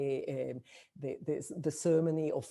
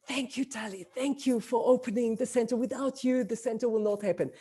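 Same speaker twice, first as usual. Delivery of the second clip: higher-pitched imitation of a grateful friend; effusive thanks; 6 semitones higher than usual. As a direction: play back heartfelt thanks in a raised pitch.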